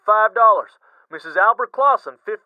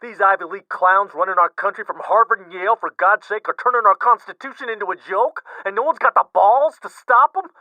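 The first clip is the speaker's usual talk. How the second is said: blowing his stack; 8 semitones higher than usual. Acted. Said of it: "Art blows his stack".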